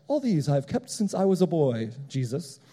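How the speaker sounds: lightly put-on British self-righteousness; mock British accent. Self-righteous rich young ruler to Jesus, mock British accent. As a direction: do a hint of a British gentleman. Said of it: "he starts talking like he's, like, a British guy".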